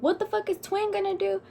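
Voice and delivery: high, mocking question; scoffing at the threat; mocking retort. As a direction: toss it off with a scoff. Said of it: "but I said".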